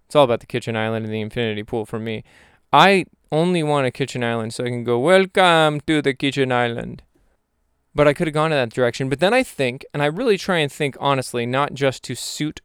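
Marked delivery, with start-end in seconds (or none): 5.0-7.0 slow, drawn-out mock welcome; grand welcoming host. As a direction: play the proud host showing off. Playacts showing off kitchen island.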